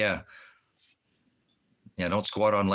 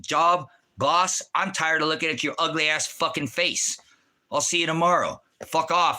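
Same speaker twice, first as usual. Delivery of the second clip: retold rant at the boss, pitched higher; cheeky jab at his boss, a little raised; mock telling off the boss; 4 semitones higher than usual. Calling in sick, he mock-insults his boss, higher pitched. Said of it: "I said".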